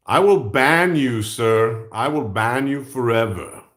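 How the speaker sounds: mildly emphatic pretend warning; mock threat. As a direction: threaten a ban in mock seriousness.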